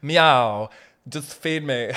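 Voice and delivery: loud meowing cat. Acted. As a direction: demand it like a cat. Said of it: "Every cat is this".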